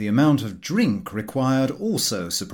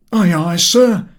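put-on loud, high, bluff old skipper; a loud, hearty "aye, aye" from the deck; hearty sailor reply; 7 semitones higher, 10 dB louder, slower than usual. A narrator's reading. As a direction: bark it like a cheerful seaman. Skipper Goyles quoted in story.

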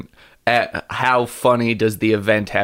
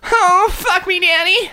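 high, slow sultry moan; sex voice. Shown as a demonstration. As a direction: purr it like a sex line. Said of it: "You just still did sex voice".

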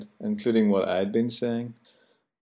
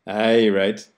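sarcastic aye right; 3 dB louder than usual. Shown as a demonstration. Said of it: "we say".

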